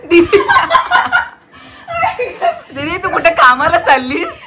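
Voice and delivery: high, teasing through laughter; laughing. Real, not acted. Vlogger teasing sister about going to work, laughing. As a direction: tease her while cracking up. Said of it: "ए, तू हसतेस का?".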